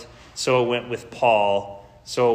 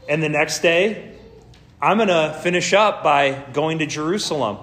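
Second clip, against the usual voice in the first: breezy, carefree, a bit higher and quicker; nonchalant and joyful; 3 semitones higher than usual. Retold or imitated. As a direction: toss it off like nothing can touch you. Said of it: "Jesus becomes nonchalant and even joyful".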